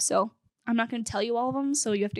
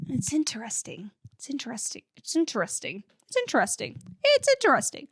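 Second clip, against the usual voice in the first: Jake; 2 semitones higher than usual. Retold or imitated. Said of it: "he's always like".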